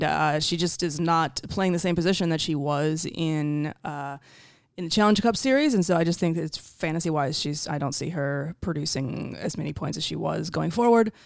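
raspy just-woke-up voice; croaky morning rasp. Real, not acted. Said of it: "in that, uh, mm, morning voice".

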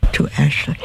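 words stretched by a yawn. Real, not acted. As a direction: talk through a yawn. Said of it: "My apologies for yawning at you".

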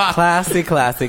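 laughing while repeating classy; laughing self-parody. Real, not acted. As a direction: giggle through the repeats. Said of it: "That was a pretty good scenario".

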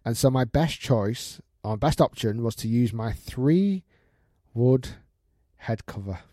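slow story reading with pauses; suspenseful read-out. Acted. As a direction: draw out the reveal piece by piece. Reads out a listener's email.

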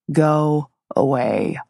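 slow, raspy and curt. Acted. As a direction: rasp it out, unused voice. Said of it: "His voice was raspy".

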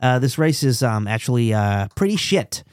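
lightly voiced halting interviewee; hesitant, deadpan pit-wall answer; Zach Brown. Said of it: "we got Zach Brown".

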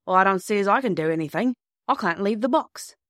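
a hint of a working countryman; lightly voiced signalman. Signalman refusing to leave his box, lightly voiced character.

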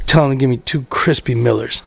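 put-on low drunk order; Rob. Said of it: "Rob wasted".

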